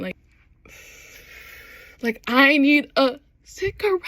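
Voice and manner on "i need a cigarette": high-pitched, hammed-up near-wail; mock heartbreak. Fan overcome by the betrayed look, mock-distraught. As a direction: stretch it up into a fake wail.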